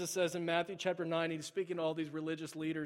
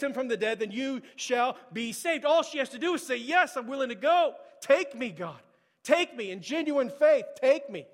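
loud, high, impassioned preaching; preaching at full force; 7 semitones higher, 10 dB louder than usual. Acted. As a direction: pour it out like a pleading sermon climax. Loud preaching, pleading quote.

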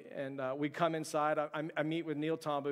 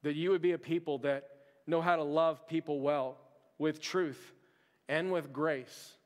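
preaching. Acted. Sermon closing appeal.

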